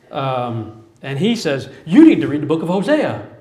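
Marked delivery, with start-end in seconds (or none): 1.9-3.3 louder, insistent advice; emphatic urging. Retold or imitated. A homeless man urges the speaker to read Hosea, loud and insistent. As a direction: press it on him firmly.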